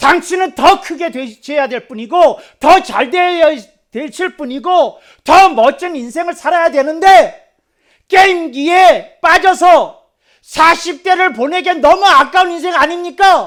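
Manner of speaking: very loud, high shouting.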